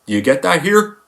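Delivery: ordinary talk, nothing marked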